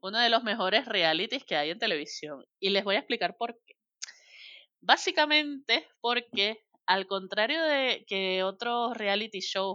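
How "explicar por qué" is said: whispering. Acted. Aside to listeners, whispered.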